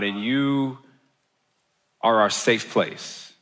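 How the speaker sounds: measured, subdued prayer with pauses; closing prayer. Real, not acted. Pastor leading the congregation to God, subdued prayer.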